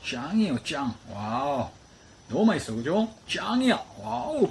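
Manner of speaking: high, loud, delighted cheering; bursting with delight at the food; excited. Real, not acted. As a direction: gush over how tasty it is. Excited praise of tasty eel.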